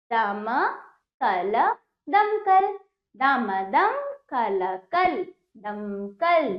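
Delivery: दमकल drawn out slowly, sound by sound; syllable by syllable. Shown as a demonstration. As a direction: spell out दमकल slowly, each letter separate. Teacher breaks word into letters.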